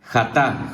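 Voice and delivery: jatá said again, xa-TA, stress on the final A; jatá with the accent on the last A; repeating jatá. Shown as a demonstration. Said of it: "¿J A qué?".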